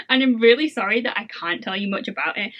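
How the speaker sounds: hushed, secretive whisper. Real, not acted. Whispering an apology to viewers for keeping secrets. Apology for not telling more.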